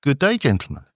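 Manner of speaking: leicht verführerische Damenstimme; a hint of a sultry lady; sexy lady voice. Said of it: "this is my sexy lady voice".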